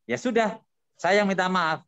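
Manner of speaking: ordinary delivery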